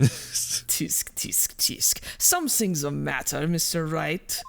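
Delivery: taunting prosecutor. Acted. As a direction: tut at a struggling opponent. Plays the rival prosecutor.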